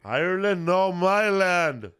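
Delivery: high, loud movie-quote holler with "my land" drawn out; hammed-up roar correcting a mistake; mock indignant shout.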